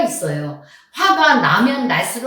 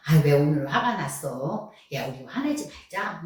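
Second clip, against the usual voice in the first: lower, softer, pretend self-comforting talk; self-soothing; 5 semitones lower, 5 dB quieter than usual. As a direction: softly coax yourself out of anger. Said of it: "나를 다스려야 돼요".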